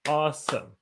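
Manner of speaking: "Awesome" in two separate beats, awe-some; split into syllables. Shown as a demonstration. Teacher confirming the count for students, "Awesome" split in two. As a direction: break "Awesome" at the syllable for a clap. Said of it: "That's two syllables".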